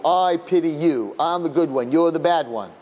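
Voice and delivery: lightly acted condescension; self-righteous pity. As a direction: play the superior one pitying an inferior. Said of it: "That's all about you".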